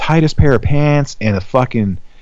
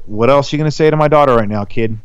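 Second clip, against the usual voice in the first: menacing dad; 2 semitones higher than usual. Retold or imitated. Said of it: "give 'em that look like".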